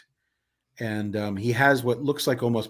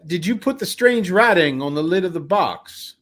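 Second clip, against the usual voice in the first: slow, raised, louder questioning; theatrical carnival man; 7 semitones higher, 7 dB louder than usual. Acted. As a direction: interrogate her with grand deliberation. Character questions the woman.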